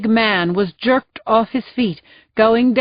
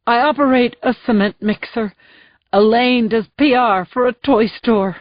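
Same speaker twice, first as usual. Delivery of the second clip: shouting; 3 semitones higher than usual. Acted. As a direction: throw it back at her. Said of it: "before shouting".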